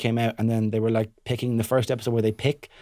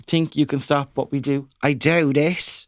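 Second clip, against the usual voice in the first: put-on Cork kids' rap line, last words stretched; put-on Cork lilt; imitating Cork accent; slower than usual. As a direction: do the Cork accent, drawing out the end. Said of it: "He's really good at the Cork one".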